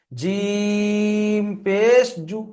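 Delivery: জিম held very long on a level note, then পেশ and a short জু; slow recited spelling, drawing out জিম and ending briefly on জু; letter stretched, vowel short. Shown as a demonstration. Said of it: "অক্ষরগুলো টান থাকবে".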